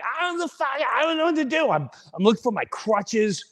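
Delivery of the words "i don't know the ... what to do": high, quick flustered protest; mock helplessness, pitch jumping up; helpless panic. Acting himself answering his yelling daughter, flustered.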